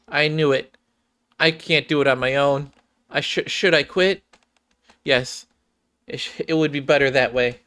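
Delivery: hesitant Clay with a hint of despair; timid Clay. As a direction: voice a shy girl talking herself into quitting. Voices shy Nikke Clay.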